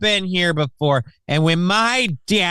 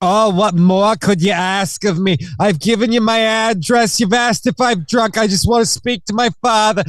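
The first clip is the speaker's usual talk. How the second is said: melodramatic lady; 2 semitones higher than usual. Pretend. Hammed-up aggrieved lady.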